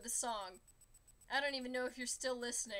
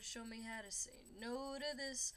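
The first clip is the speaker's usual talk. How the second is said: softer, held-back prayer; quiet prayer; 6 dB quieter than usual. Pretend. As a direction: pray it under your breath. First prayer verse, held back.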